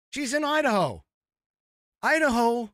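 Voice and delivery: incredulous laugh through the words; high, loud, breaking into laughter. Real, not acted. Mocking AOC for her accent, laughing high and loud.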